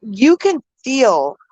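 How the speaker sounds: choked up, voice swooping on slow words; real crying. Real, not acted. Mother moved by a missing boy's case, crying. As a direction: break off tearfully and apologise. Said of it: "I'm crying".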